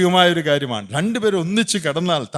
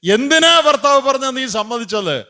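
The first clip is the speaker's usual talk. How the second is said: higher, louder scolding question; stern rebuke; 9 semitones higher, 5 dB louder than usual. Retold or imitated. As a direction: demand why she agreed. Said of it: "എന്നാ പത്രോസ് ചോദിച്ചേ".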